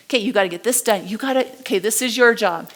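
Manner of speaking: curt, rushed orders; bossy manager, palm down. Retold or imitated. Manager barking tasks at employees, fast and curt. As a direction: fire off the orders like a boss who doesn't listen. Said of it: "it was like this".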